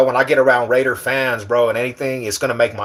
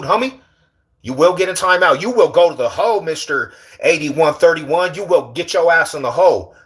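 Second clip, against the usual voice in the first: lightly played, higher-pitched telling-off; mock warden scolding; 4 semitones higher than usual. Warden threatening a mouthy inmate with timeout, mock scolding. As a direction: lay down the law as a pretend warden.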